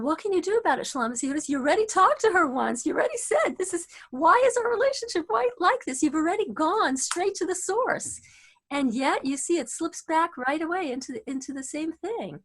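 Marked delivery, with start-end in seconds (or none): 0.0-8.2 exasperated inner voice. Retold or imitated. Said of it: "And I was thinking".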